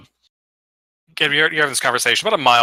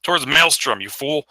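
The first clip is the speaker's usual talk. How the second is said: somewhat raised, irritated complaint; grumbling giant; 3 semitones higher than usual. Acted. Game master voices giant scolding his companion, grumbling. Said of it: "start stomping down the clouds".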